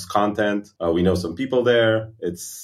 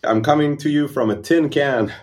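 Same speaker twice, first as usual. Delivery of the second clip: tinny mic sound; 5 semitones higher than usual. Real, not acted. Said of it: "Yeah, it sounds like it".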